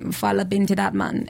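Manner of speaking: quick demonstration of Belizean lilt; Belizean accent. Shown as a demonstration. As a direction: slip briefly into a Belizean accent. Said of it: "my family's Belizean, which is why I can".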